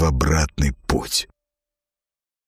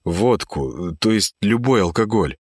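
sincere plea. Acted. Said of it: "Слова просто текли из меня, и они были искренни".

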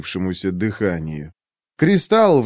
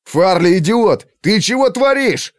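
much higher, louder exasperated yell; angry scolding; 10 semitones higher, 4 dB louder than usual. Acted. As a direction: yell at a reckless friend. Kes berates Farli. (Кэс возмущённо кричит на Фарли)

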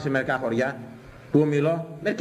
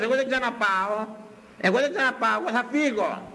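mock indignation; 7 semitones higher than usual. Voices an offended churchgoer quitting.

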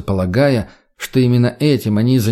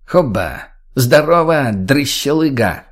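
brash character greeting; 2 semitones higher, slower than usual. Acted. Mutny bursts in, greeting rudely.

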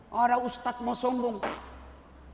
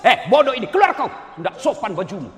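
loud mock telling-off; acted rude outburst, starting loud and easing off; harsh scolding; 9 dB louder than usual. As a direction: bawl the student out in pretend outrage. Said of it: "mana Ustadz ngomong kasar begitu".

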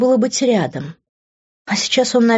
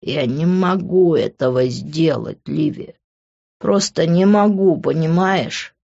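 broken despair; 3 semitones lower, slower than usual. Acted.

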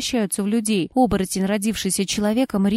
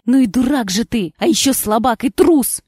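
angry insult; 2 semitones higher, 5 dB louder than usual. Acted. Furious wife insulting her husband, angry insult. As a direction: spit the insults at him.

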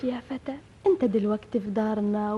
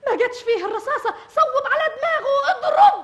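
high, loud, fast excited cries; frantic urging; 13 semitones higher, 8 dB louder than usual. Acted. Girl urging the hunter to shoot the snake, frantic. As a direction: push him to shoot now.

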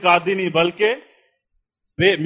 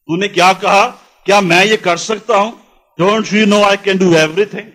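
mildly indignant, insistent challenge; holy anger; 2 semitones higher, 4 dB louder than usual. Acted. Preacher as Jesus confronting the man who doubts him, restrained holy anger. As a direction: press each accusation home, affronted. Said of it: "Jesus is having holy anger inside".

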